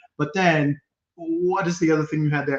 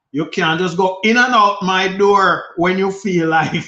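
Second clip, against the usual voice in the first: stern mother; 5 semitones higher, 5 dB louder than usual. Retold or imitated. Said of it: "this is how my mother would put it".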